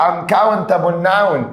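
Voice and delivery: key term drawn out slowly; slow emphasis. Shown as a demonstration. Teacher stressing a grammar term for students, slowly. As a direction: lean on the term so it sticks.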